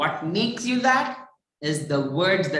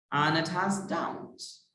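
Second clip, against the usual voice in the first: slow and softer, settling on "downs"; drawn-out, quieter demo on "downs"; wavy intonation; 3 semitones lower, 6 dB quieter than usual. Shown as a demonstration. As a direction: ease off on "downs" to show a dip. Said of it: "My voice is like this".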